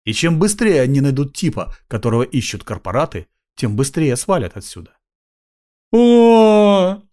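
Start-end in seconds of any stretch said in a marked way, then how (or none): 5.9-7.0 loud high hoarse oh of delight; joyful wheeze. A narrator's reading. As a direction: croak out glad surprise. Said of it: "радостно захрипел бомж".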